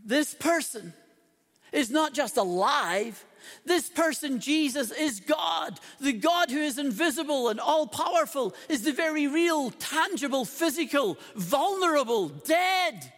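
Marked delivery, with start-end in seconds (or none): 3.6-13.1 higher, louder preaching build; rising fervour. Real, not acted. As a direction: build each word toward a shout. Preaching climax of a list.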